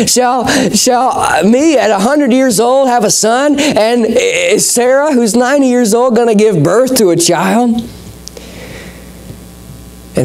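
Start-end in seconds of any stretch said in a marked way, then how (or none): 0.1-7.8 incredulous. Acted. Abraham laughing in disbelief.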